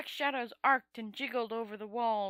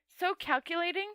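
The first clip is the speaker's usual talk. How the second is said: a rasping sneer; rasped; 7 semitones higher than usual. Acted. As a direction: rasp it out coldly. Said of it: "she rasped".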